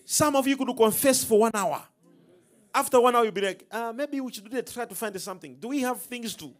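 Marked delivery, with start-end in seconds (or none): 3.7-6.5 softer, hesitant mumbled suggestion; mock wavering. Preacher mimics a believer wavering after one hour, mock wavering. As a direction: imitate someone losing nerve, softly.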